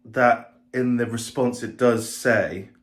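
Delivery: slow and pointed, a little condescending; sharp. Shown as a demonstration. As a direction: lean on response and does, drawn out. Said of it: "can sound a bit sharp".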